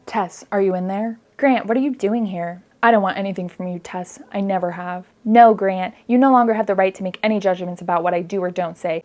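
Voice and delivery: lightly acted dialogue read-through. Shown as a demonstration. Reviewer demonstrates the characters' dialogue, lightly acted. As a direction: read the lines like stiff drama. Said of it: "I'm going to demonstrate".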